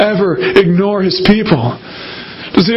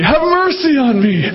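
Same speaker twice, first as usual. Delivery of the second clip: pleading again; 3 semitones higher than usual. Acted. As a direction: sink back into the plea. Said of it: "so she kept on saying it".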